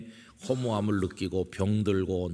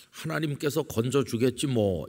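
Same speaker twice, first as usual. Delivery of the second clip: higher, lightly imitated sneer; mocking; 4 semitones higher than usual. Onlookers jeering at Jesus on the cross, mildly mocking. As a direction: toss it off as a mild mock taunt. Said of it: "이러면서 예수님을 조롱했던".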